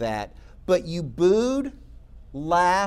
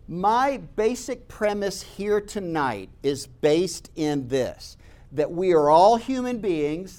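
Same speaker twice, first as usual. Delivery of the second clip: measured declaration. Retold or imitated. Formal declaration at the lectern.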